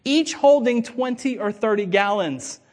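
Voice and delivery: slow, measured Bible reading to the congregation; solemn reading of the Gospel; scripture reading. Acted. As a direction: read the passage with weight and pauses. Reads the scripture text aloud.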